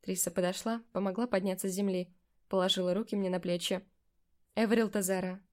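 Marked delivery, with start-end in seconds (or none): 4.5-5.4 Эверил Тазара, every syllable crisp; very distinct. A narrator's reading. Witch pronounces Эверил Тазара precisely to the girl. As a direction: spell out Эверил Тазара clearly. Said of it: "очень чётко произнесла она".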